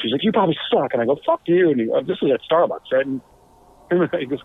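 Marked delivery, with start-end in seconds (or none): 0.2-0.9 higher-pitched mock taunt; retold argument jab. Retelling a screaming match at Starbucks, mock-angry. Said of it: "we had a screaming match". 1.2-1.7 high, louder mock-angry retort; retold screaming match. Drummer answering John in a screaming match, mock-angry. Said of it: "we had a screaming match".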